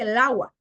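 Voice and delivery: "el agua" run together as lagua; article fused. Shown as a demonstration. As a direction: drop the e of "el agua". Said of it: "Hay gente que dice".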